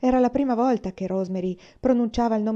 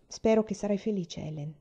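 tenderly; 2 semitones higher than usual. Acted. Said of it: "disse teneramente".

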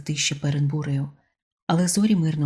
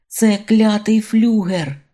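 loud, higher and slowed, horrified; panicked shout; 4 semitones higher, 6 dB louder, slower than usual. A narrator's reading. Father tells his son what rose from the sea, panicked shout. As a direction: bellow it out in alarm.

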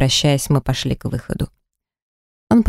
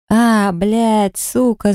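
yelling curses; 6 semitones higher, much slower than usual. A narrator's reading. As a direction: cry out in pain and outrage. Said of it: "заорал он благим матом". (сдержанно изображённый вопль)

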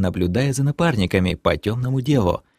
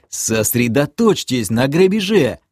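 cracked voice; 5 semitones higher than usual. Acted. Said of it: "сорванным голосом велел я".

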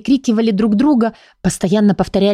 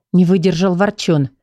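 ordinary delivery

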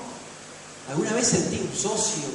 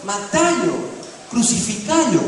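loud, high mob demand; crowd yelling; 5 semitones higher, 4 dB louder, slower than usual. Retold or imitated. The crowd now demands crucifixion, loud yell. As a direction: yell it like the same crowd turned. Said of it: "ya estaban todos".

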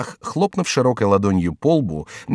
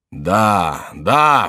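second yes louder; exclaimed yes; 3 dB louder than usual. A narrator's reading. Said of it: "вскричал монах".

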